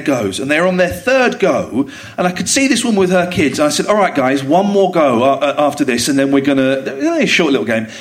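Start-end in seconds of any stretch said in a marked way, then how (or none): 3.9-7.9 lower, easy retold dad voice; patient dad voice. Father telling his boys to share, patient. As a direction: talk the kids round gently.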